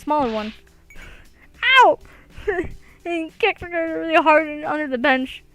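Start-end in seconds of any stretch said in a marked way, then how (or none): 1.8-2.0 sudden short "Ow!" yelp; yelp of pain. Acted. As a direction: yelp as if kicked under the bench. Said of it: "Akarsha's yelp".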